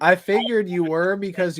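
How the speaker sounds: lightly faked Aussie accent; a hint of mock Australian; put-on Australian accent. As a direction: boast in a dubious Australian accent. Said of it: "your Australian accent isn't very good like mine".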